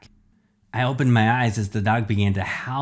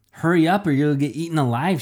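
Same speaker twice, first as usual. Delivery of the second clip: urgent; 6 semitones higher, 4 dB louder, faster than usual. Acted. Urgent warning in chase.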